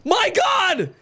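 drawn-out high shriek of shock; shocked scream. Real, not acted. Streamer shrieks as he's flung into the sky, high and loud. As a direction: yell it out in sudden alarm.

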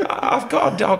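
high, loud mimicked woman; woman's calling voice. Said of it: "And she goes".

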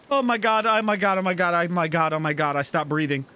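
ordinary talk

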